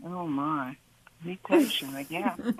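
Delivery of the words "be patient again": tries for calm but giggles; breaking into laughter mid-attempt; embarrassed laughing take; laughing through it. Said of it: "tell it to me in a voice that's super calm".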